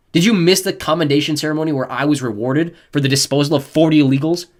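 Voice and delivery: loud scornful lecture; cold contempt. A narrator's reading. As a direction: sneer down at them. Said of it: "spoke so coldly".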